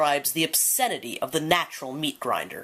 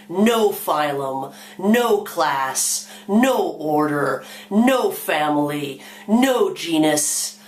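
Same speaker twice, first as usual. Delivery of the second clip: defiant demand. Acted. Animals demand the right not to exist.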